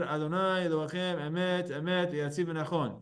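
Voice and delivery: a lightly voiced chazan reciting, emet said twice; soft mock recitation of the prayer; chazan repeating emet. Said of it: "He said the word emet twice".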